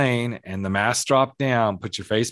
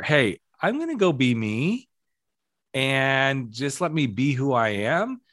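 cheerful self-focus; 3 semitones higher than usual. Retold or imitated. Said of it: "shamed into these spaces where".

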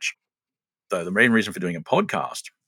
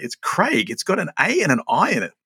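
put-on Kiwi accent; 7 semitones higher than usual. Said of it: "And he was like".

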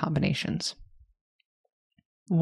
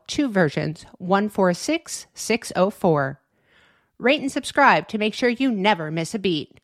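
upbeat podcast outro voice; outro announcer read; 2 semitones higher than usual. Acted. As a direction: read it like a show promo.

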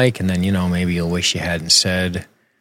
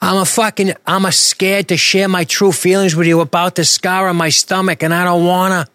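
much higher, louder hammed-up confession; mock earnest confession; 10 semitones higher, 3 dB louder than usual. Host mocking clumsy writing, high hammed-up earnestness. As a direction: overplay the corny line for laughs. Parodying on-the-nose dialogue.

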